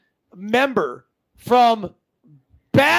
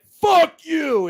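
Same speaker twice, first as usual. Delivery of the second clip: a father's curse, pitched up, half-acted; mock angry curse; 6 semitones higher than usual. Retelling a father cursing at him, mock angry. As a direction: throw a retold fuck you, higher. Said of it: "he's like".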